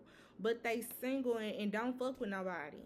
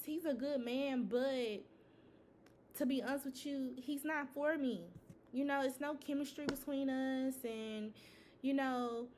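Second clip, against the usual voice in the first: reluctant admission; 3 semitones higher than usual. Acted. Woman confiding she feels nothing for Thomas, reluctant admission. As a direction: confide doubts about a decent partner in a lightly raised voice. Voices woman unmoved by good man.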